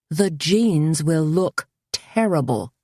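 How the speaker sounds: slow, put-upon complaint; a slow, mild moan over ruined jeans. Acted. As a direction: drag the words out in dismay. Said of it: "Carmen moaned".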